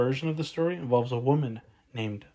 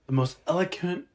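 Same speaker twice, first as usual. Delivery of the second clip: mock eloquent. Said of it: "I'm gonna say this in the, the most eloquent".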